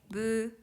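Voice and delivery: Brazil split into four separate sounds, bu-ra-ji-ru; syllable by syllable. Shown as a demonstration. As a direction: say Brazil the Japanese way, one syllable at a time.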